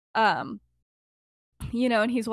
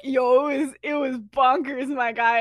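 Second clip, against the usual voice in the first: mock hype; 2 semitones higher, 5 dB louder than usual. Emmeline covering up to the adults, mock hype. Acted lame cover story continues.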